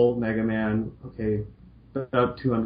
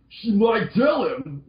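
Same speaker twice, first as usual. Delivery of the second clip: lightly voiced Lan; 9 semitones higher, slower than usual. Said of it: "that's my Lan voice".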